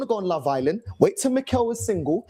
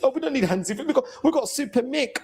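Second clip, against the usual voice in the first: mimicking fans; 4 semitones higher, faster than usual.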